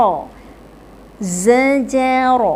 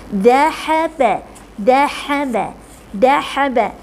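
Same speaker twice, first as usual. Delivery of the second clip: slow. Shown as a demonstration. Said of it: "slow drill before laju".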